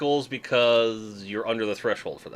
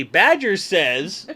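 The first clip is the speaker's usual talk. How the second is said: spoken very slowly, word by word; slow demo; 3 semitones higher, 5 dB louder, much slower than usual. Shown as a demonstration. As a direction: spell it out slowly to teach.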